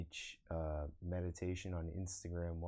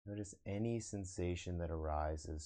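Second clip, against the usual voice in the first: guided meditation. Acted. Meditation teacher guiding online viewers to observe the breath, guided meditation. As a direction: lead them into breath awareness, unhurried.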